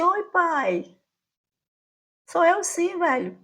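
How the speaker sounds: put-on teenage son answering his father rudely; rude reply. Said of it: "Ainda fui grosseira".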